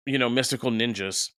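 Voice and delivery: talking through hiccups; speech broken by hiccups. Real, not acted. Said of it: "I have the hiccups so bad".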